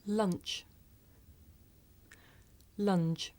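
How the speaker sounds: chunk junk rich ridge lunch lunge, voiceless ch then voiced j; careful minimal-pair demo. Shown as a demonstration. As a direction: contrast each pair clearly. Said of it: "Listen and repeat after me".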